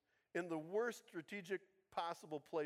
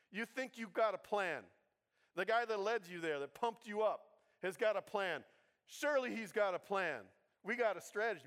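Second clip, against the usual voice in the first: insistent expectation; 3 semitones higher, 5 dB louder than usual. Acted. Preacher voices armor bearer's expectation.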